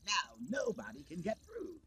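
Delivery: Grandmaster Glitch as a gleeful, scheming villain; smug, showy villain eager to party. Acted. Villain Glitch boasting to his Grimbots, gleeful.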